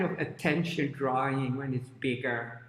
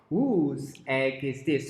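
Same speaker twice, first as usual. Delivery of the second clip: tag; 4 dB louder, slower than usual. Acted. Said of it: "and she says".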